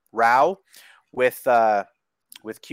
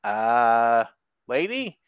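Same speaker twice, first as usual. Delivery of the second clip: baffled look; much slower than usual. Retold or imitated. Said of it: "this look on his face like".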